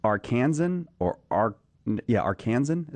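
Arkansan said ar-KAN-zun; checking a pronunciation. Shown as a demonstration. Host asks guest how you say it, Arkansan stressed on KAN. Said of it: "Is that how you say it?".

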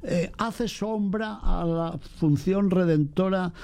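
mock objector. Priest voicing a Protestant's objection, mild mock. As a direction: lightly mimic a skeptic.

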